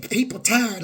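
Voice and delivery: lightly voiced grudging relative, muttered soft; mock mumbled apology. Mocking a relative's weak apology, half-hearted. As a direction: mimic their half-hearted sorry. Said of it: "You don't get to talk to me like".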